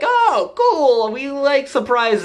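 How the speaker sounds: squeaky high delighted voice; hammed-up high excitement; mock naive glee. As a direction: play it like clueless kids. Heroes answer villain naively.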